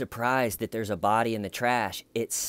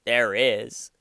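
mock whine; 5 semitones higher than usual. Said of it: "he's going".

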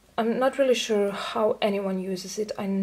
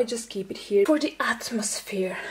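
whispering. Real, not acted. Whispered comment on the altar.

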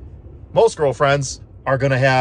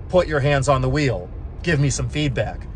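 "Put your hands on the wheel" with a firmer, mildly stern edge; lightly stern mock-Tesla voice; a bit more stern. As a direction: read it like a slightly stricter car warning. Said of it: "now it's a little bit more stern".

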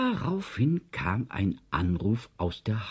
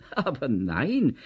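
high, drawn-out protest; rufend; 6 semitones higher, 3 dB louder, slower than usual. A narrator's reading. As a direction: call out a slow, emphatic objection. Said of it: "rief Herr Kucks". (gedehnter Ausruf, hoch und abwehrend)

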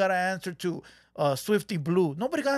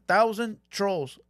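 slow, stretched out; much slower than usual. Shown as a demonstration. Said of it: "And his thousand trolls".

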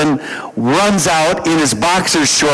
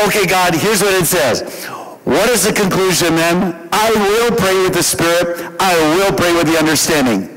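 higher-pitched, exasperated verse reading; irritated recital; 4 semitones higher than usual. Retold or imitated. Pastor reading the verse back at God, irritated. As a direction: read it out as if proving a point. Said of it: "So now I'm irritated".

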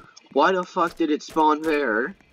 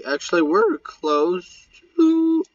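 voice cracking; 4 dB louder than usual. Real, not acted. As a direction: voice cracks mid-sentence. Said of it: "voice crack much".

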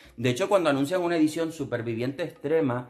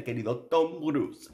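mock sweet; slower than usual. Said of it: "Y digo".

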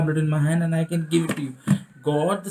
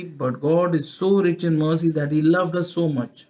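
measured scripture reading, "so" stretched; slow reading. Shown as a demonstration. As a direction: read the verse out deliberately, leaning on each "so". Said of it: "I'm going to read it slowly".

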